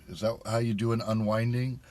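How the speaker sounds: muffled voice inside a visor; inside a helmet. Real, not acted. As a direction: talk from behind a helmet visor. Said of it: "I hit my visor".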